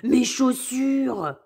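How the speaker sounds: loud surprised outburst; exclaiming. Acted. Wolf exclaims on seeing his shoes swapped, loud surprise. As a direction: realise it all at once. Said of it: "il s'écrie".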